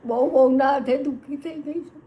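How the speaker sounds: pleading through real tears; real crying plea. Real, not acted. Old mother pleading, abandoned by son.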